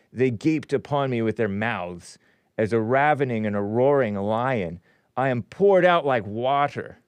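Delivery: emphatic King James recitation; solemn scripture reading. Acted. Host reading Psalm twenty-two to listeners, declamatory. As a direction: declaim each verse with weighted key words.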